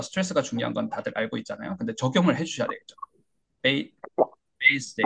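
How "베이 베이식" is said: 베이식 with the pitch dropping after 베이; falling stress. Shown as a demonstration. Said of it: "이렇게 떨어져야 돼요".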